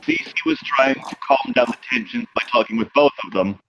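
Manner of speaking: put-on measured in-character German accent. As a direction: play it with a light German accent. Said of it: "Sorry, it's a German accent".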